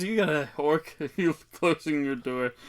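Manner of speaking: loud, high character voice; teasing call. Acted. The speaker remarks on an orc closing the door, loud high voice. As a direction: pitch it up and call it out loudly.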